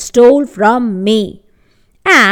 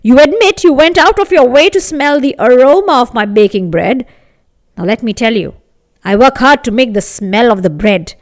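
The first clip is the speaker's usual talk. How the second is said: indignant baker; 4 dB louder than usual. Acted. Baker's angry demand.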